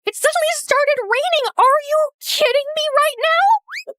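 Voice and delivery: loud, high, outraged wail; exasperated shout. Acted. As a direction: yell at the sky in disbelief. Rain ruins fire.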